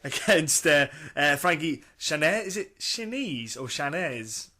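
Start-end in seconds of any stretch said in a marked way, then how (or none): 1.3-2.4 Chanez tried slowly as sha-NEH, rising; slow, questioning attempt at Chanez; unsure pronunciation. Real, not acted. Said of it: "a funky one to pronounce". 2.5-4.5 Chanez slowly tried two different ways; slow, unsure either-or on Chanez; puzzling over pronunciation. Real, not acted. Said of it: "a funky one to pronounce".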